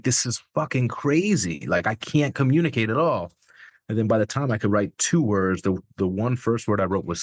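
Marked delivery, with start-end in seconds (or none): 0.0-3.3 higher-pitched, exasperated disbelief; retold disbelief. Recalling that he couldn't communicate at all, alarmed disbelief. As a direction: relive the alarm, pitch raised. Retells panic at failing to write.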